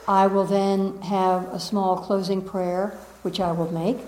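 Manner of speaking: a teacher preparing listeners for the calls; solemn ceremony. Acted. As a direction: ease the room into stillness.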